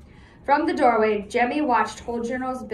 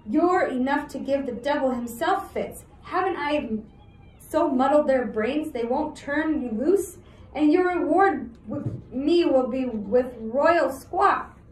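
put-on cheeky, teasing street boy; mocking boy voice; 4 semitones higher than usual. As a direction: taunt him with a sly grin. Jemmy mocks prince.

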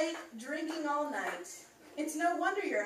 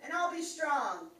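mock pledge; 3 semitones higher, 3 dB louder than usual. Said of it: "repeat after me".

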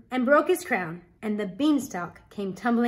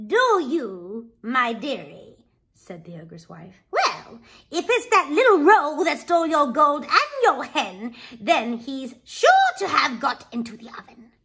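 a lightly voiced, coaxing wife, a bit louder; humouring her husband; ogre's wife; 3 semitones higher, 5 dB louder than usual. Wife humours the ogre, lightly coaxing.

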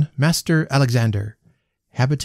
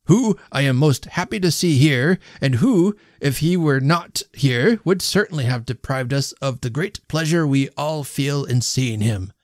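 pompous speechmaker; 3 semitones higher than usual. A narrator's reading. Host's toast speech.

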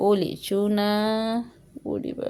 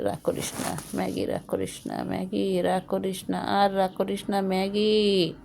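soothing. Real, not acted. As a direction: gently soothe a sulking pet. Soothing the angry cat.

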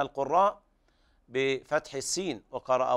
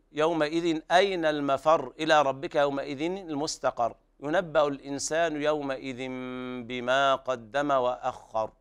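careful tajweed reading; measured Quranic recitation. Shown as a demonstration. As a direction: recite the verses melodically.

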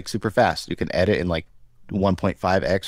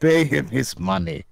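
bad Russian accent; 7 semitones higher than usual. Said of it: "It's so bad".

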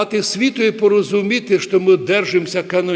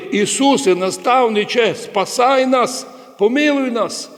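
imitated crying out; 6 semitones higher than usual. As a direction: call out like blind men begging for mercy. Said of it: "Сліпі кричали".

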